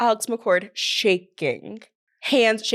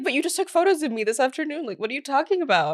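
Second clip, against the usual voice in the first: incredulous; 3 semitones higher, faster than usual. Retold or imitated. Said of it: "Alex is like".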